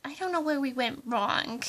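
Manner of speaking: ordinary talk, nothing marked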